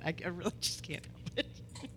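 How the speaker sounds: soft, breaking into a giggle; giggly apology. Real, not acted. Preacher apologizing to nervous congregation, giggling softly. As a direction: apologize through helpless laughter.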